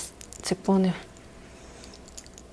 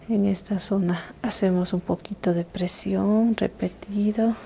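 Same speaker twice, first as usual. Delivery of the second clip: intimate whisper. Acted. ASMR massage, whispered guidance.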